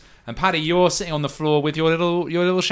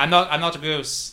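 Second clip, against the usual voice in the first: creature. Acted. Shadow creature protests.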